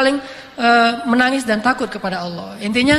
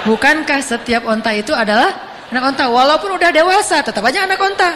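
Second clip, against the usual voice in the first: emphatic punchline; 3 semitones higher than usual. Retold or imitated. Prophet explains his joke to companion, rising emphatic punchline. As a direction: spell the joke out, pitch climbing. Punchline repeated, spelled out for laughs.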